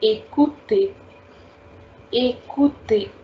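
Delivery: "écoutez" joined, "ay-koo-tay"; same A sound. Shown as a demonstration. Teacher repeating the third example for students, "écoutez" as ay-koo-tay. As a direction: model "écoutez" with "ay" at both ends. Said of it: "giving you the same sound".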